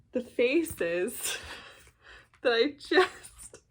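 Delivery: creeped out. Real, not acted. Creeped out by moon faces.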